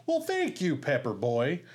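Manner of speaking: the line as written, lightly lifted; plain line reading. Retold or imitated. Retelling the sketch, the line as written for Farley. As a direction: say it straight, as scripted. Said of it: "Farley's just supposed to say".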